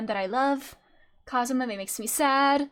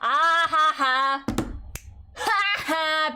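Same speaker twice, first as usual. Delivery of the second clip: mock laugh; 4 semitones higher, much slower than usual. Streamer greets a pun with a mock laugh. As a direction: laugh slowly and emphatically at the pun.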